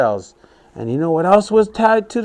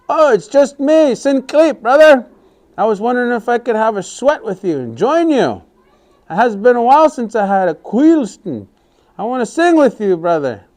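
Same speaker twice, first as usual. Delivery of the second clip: sweet-talking trickster; 5 semitones higher than usual. Acted. Sinclair sweet-talks to get in.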